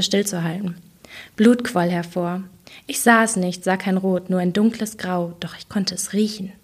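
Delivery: reading her own novel aloud, even and measured; story narration. Acted. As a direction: tell the scene like a reader at a book event. Author reads her novel excerpt.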